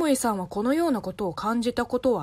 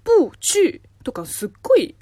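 不去 forced out in a tense, straining whisper; strained whisper; 6 semitones higher, 7 dB louder than usual. Shown as a demonstration. Host showing how tiring 不去 is, whispered. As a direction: whisper 不去 as if it takes effort. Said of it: "言いにくいんですよ".

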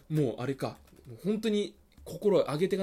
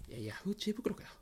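a muttered, much softer aside in class; quiet quip; 3 semitones higher, 11 dB quieter than usual. Retold or imitated. Classmate muttering a joke at the teacher, softly. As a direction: slip a soft jab under your breath. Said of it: "小声で".

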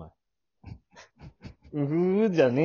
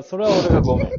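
apology said through laughter, a bit louder; laughing; 4 semitones higher, 4 dB louder, faster than usual. Real, not acted. Apologizing to his partner while cracking up, laughing. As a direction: giggle your way through the sorry.

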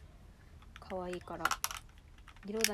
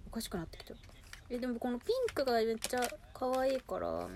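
giddy whisper. Real, not acted. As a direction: whisper it, overexcited. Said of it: "テンションがおかしくなってきちゃった". (はしゃいだささやき声)

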